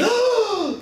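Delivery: sharp high gasp of surprise; mock gasp. Narrating the frenzy over the first clue, high mock gasp. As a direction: gasp like the whole world just heard the news.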